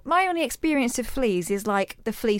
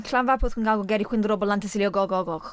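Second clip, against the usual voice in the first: Spanish accent. Real, not acted. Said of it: "Why did you say it in a Spanish accent?".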